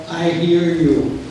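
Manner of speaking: slow, soothing "I hear you", stretching "hear"; a slow "I hear you" to someone upset; slow empathetic "I hear you". Shown as a demonstration. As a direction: say "I hear you" slowly, as if truly listening. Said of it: "give a message of".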